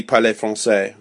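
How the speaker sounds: parler français with a French accent. Shown as a demonstration. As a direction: model the French pronunciation for a learner. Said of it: "just getting the accent close".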